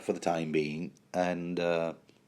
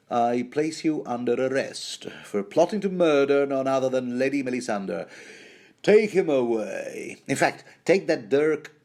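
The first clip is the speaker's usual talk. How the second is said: raised, theatrical arrest speech; villainous Axel; 5 semitones higher, 4 dB louder than usual. Acted. Axel arresting Davos for plotting murder, pompous command. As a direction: draw out the order like a pompous villain. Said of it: "Axel goes".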